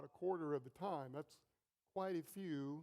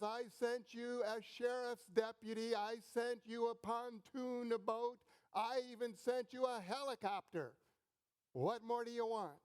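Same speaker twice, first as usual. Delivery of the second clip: mild mock thunder from heaven, a bit higher; exasperated divine voice, understated; 5 semitones higher than usual. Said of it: "a voice thunders from behind the gates".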